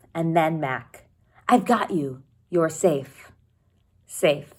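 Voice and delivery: steady read-aloud narration for a class; story narration. A narrator's reading. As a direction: read the chapter to your students, evenly. Teacher reads the novel aloud.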